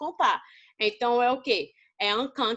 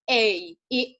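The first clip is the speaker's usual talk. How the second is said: slow article demo; 3 semitones lower than usual. Shown as a demonstration. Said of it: "Nós sabemos que o artigo".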